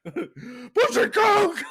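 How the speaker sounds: long, high, loud holler cracking with laughter; imitated scream. Stranger suddenly screaming at a shopper, imitated scream. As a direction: scream it out slowly, half laughing. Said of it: "you just start screaming".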